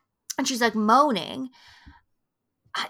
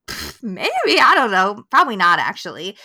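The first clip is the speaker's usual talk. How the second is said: offhand, couldn't-care-less voice, a touch louder; careless shrug; 6 dB louder than usual. Retold or imitated. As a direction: toss it off like nothing matters. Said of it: "not giving a shit at this point".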